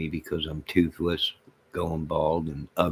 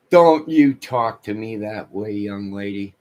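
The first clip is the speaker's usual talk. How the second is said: mock scolding; 7 dB louder than usual. Scolding the chatter Debbie.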